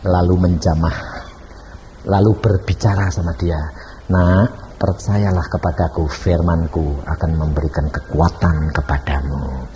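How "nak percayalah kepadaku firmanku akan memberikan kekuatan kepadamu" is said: lightly voiced Lord, low and slow; fatherly reassurance. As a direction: reassure slowly in a lowered voice. Voicing the Lord reassuring a child. (suara rendah, pelan, menenangkan)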